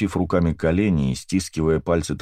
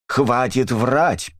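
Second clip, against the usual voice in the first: high, very slow furious cry; angry outcry; 7 semitones higher, much slower than usual. A narrator's reading. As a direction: hurl the accusation, dragging each word. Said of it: "вскричала миссис Брикстер".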